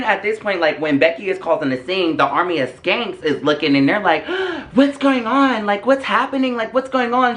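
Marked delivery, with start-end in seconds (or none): 4.3-7.4 high, breathless mock alarm after a gasp; alarmed onlookers. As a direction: imitate nosy friends piping up in shock. Acted alarmed friends looking in.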